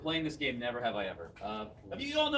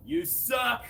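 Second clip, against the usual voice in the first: higher, louder heckle yell; 10 semitones higher, 5 dB louder than usual. Retold or imitated. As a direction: shout it from the crowd. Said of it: "he yells out".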